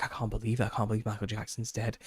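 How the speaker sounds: imitating upset friend. Teen recalls friend shocked at the news, mock hushed disbelief. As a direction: mimic a friend quietly stunned by the news. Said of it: "getting this emotional reaction".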